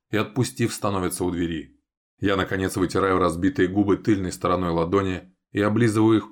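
plain reading voice

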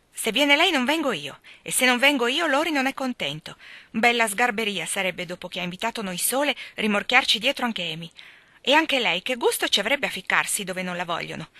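annoyed refusal. Acted. Jo angrily refusing to drag her sister along. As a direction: refuse flat out, fed up.

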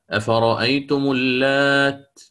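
اللات held slowly with a final t; stop on ta. Shown as a demonstration. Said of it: "وقف عليها بالتاء". (الوقف على التاء في اللات)

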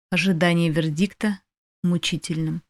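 plain reading voice

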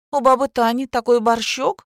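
brisk lively boast; perky. A narrator's reading. Lola cheerfully praises baba Tanya's borscht, loud. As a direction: sell it brightly. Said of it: "бойко ответила Лола".

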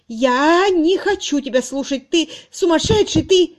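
high, loud frantic cry; a frightened spinster shutting out her lover; hysterical protest. A narrator's reading. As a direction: scream it with hands on ears. She covers her ears.

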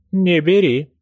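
firm, loud order; commanding. Acted. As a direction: forbid it with authority. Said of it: "повелительно сказала бабушка". (повелительно)

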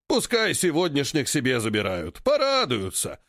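smirking ape voice. Acted. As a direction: say it with a grin. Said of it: "усмехнулся вожак". (усмешка вожака)

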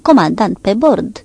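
firm command. Acted. Stannard announces the captain coming aboard, firm and loud. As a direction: announce it crisply to the watch. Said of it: "voce hotărâtă".

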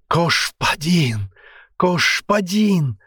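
Кошпадин hissed slowly with a lisp, ш for г and с; slow, high, lisped Кошпадин. A narrator's reading. Captive begging the commander, lisped Кошпадин. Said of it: "зашипел он".

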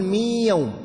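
مي يوم with the نون fully merged into one doubled ياء; merged reading of مي يوم with ghunna; idgham demo. Shown as a demonstration. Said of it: "هل هناك أثر للنون؟".

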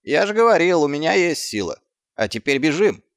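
told-you-so then run; triumphant Gaspode. A narrator's reading. (торжествующе и громко)

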